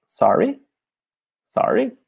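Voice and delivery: a confused cashier asking again; puzzled cashier. Retold or imitated. Cashier who can't understand, rising puzzled Sorry. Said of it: "E a moça".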